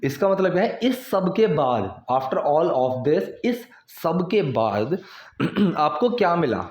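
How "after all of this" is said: very slow, word by word for learners; slow model reading. Shown as a demonstration. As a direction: spell it out slowly like a teacher. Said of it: "teacher models English phrase". (बहुत धीमे, शब्द-दर-शब्द पढ़ाते हुए)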